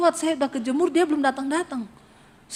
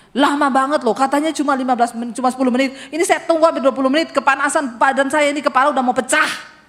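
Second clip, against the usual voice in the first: louder, fast complaining at her husband; annoyed scolding; 2 semitones higher, 4 dB louder, faster than usual. Retold or imitated. Wife scolding late husband, fast and annoyed. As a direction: nag him for making her wait in the heat.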